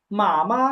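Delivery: first "মা" held long, second "মা" short and light; careful Chinese "মা, মা", long toned syllable then a light one; first tone then neutral. Shown as a demonstration. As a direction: stretch the first "মা", let the second "মা" go unstressed. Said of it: "মাদারের Chinese কি".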